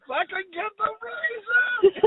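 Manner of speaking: high, slow, breaking into laughter; giggling, teary, barely getting the words out; laughing through words. Real, not acted. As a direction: squeeze it out while laughing hard. Cracking up at own joke.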